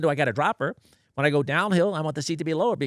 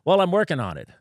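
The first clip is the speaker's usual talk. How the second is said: defensive electrician; 6 semitones higher, 5 dB louder than usual. Retold or imitated. Electrician insists, retold.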